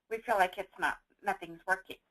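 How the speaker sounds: talking through hiccups; words broken by hiccups. Real, not acted. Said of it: "I have the hiccups".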